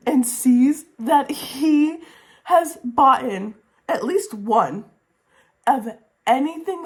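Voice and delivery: high, slow, gushing build; excited. Real, not acted. Reviewer gushing over a romantic twist, excitedly drawn out. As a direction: savor each word with rising glee.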